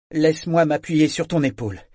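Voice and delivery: fort et plus aigu, en ordonnant; à voix haute. A narrator's reading. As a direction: ordonne pour que la salle entende. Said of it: "ordonna-t-il à voix haute". (Brachen ordonne à voix haute, pour être entendu)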